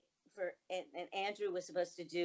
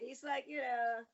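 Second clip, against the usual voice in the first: ordinary delivery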